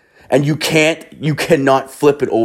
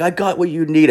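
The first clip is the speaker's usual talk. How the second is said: high-pitched imitated street dealer; urgent high hustler impression; beach hustler; 9 semitones higher than usual. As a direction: warn them off in a high put-on voice.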